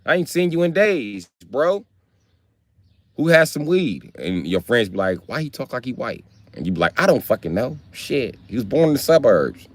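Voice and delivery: talking white. Retold or imitated. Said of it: "they talk white like this".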